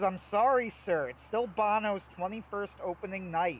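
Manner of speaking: lightly voiced puppet excuse; apologetic Grover. Grover apologizing to the audience guy, mild sheepish voice. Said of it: "He goes".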